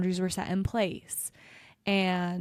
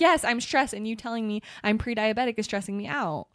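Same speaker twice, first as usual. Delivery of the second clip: exasperated retort; 3 semitones higher than usual. Retold or imitated. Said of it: "I'm like".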